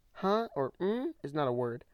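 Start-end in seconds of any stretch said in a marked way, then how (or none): 0.1-0.5 high, loud mock grunt of confusion; mocking huh. Mocking people who answer with huh, high and loud. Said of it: "bro, use words". 0.8-1.1 high, mocking questioning hum. Mocking people who just hum back, in a high voice. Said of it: "bro, use words".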